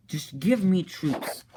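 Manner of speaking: a villain making demands; demanding. Retold or imitated. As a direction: stretch the words out in a put-on voice. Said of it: "Chronic's like".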